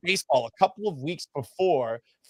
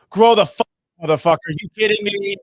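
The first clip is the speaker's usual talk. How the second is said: acted-out angry cussing, loud at the start; mock outburst of indignant swearing; Ozzie Guillen; 3 semitones higher, 6 dB louder than usual. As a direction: imitate an irate manager swearing at a reporter. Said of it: "Ozzie Guillen just swore at me".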